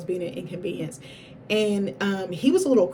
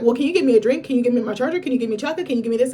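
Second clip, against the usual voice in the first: higher, louder, rapid-fire asks, each one rising; needy string of requests; 4 semitones higher, 5 dB louder, much faster than usual. Retold or imitated. Patient mimicking her own requests to her husband, high and pleading. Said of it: "'Cause I'm like".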